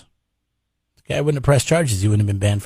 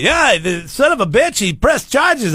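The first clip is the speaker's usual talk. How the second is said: high hammed-up Irish brogue boasting; mock Irish accent; 11 semitones higher, slower than usual. Cocky Conor bragging in a hammed-up Irish accent. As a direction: crow like a cocky Irish barman. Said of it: "What's an Irish accent sound like?".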